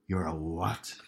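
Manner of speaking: low, hushed Belfast disbelief; Northern Irish mum. Retold or imitated. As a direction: drop it low, a Belfast mother aghast. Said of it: "Northern Irish mum".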